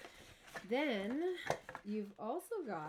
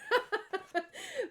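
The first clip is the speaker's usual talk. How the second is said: high laugh bursting out; high burst of laughter; 8 dB louder than usual. Real, not acted. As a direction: laugh out loud at your own joke. Laughs after teasing her mom.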